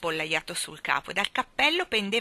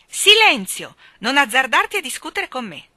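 high, shouted angry reprimand; angry command; 8 semitones higher, 13 dB louder than usual. A narrator's reading. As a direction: shout down a child who answers back. Woman silences the arguing boy. (grido imperioso e adirato)

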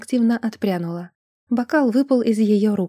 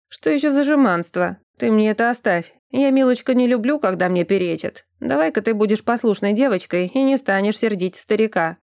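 put-on grumbling old man. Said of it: "Бормоча последнюю фразу".

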